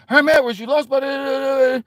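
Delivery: high hammed-up shouting reporter; mocking reporters. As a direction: badger him like a pushy press pack. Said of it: "They was".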